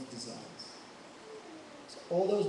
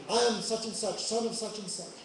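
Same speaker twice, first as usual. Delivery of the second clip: kings shouting; 5 semitones higher than usual. Acted.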